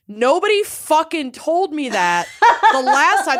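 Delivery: high, laughing outrage; laughing disbelief. Retold or imitated. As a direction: laugh through the complaint. Retold outrage while laughing.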